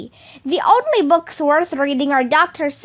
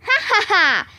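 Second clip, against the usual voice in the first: high, gloating ha-ha-ha; spoken laugh, pleased with yourself; mock laugh; 5 semitones higher, faster than usual. Kid narrator teasing the reader who kept reading, mock laugh.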